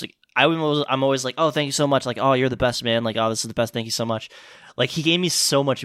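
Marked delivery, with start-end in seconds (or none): 1.4-2.0 lightly sweet customer service voice; polite and thankful, a bit sugary. Retold or imitated. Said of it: "customer service voice". 2.2-3.0 customer service voice. Retold or imitated. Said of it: "customer service voice". 3.2-4.3 customer service voice. Retold or imitated. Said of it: "customer service voice".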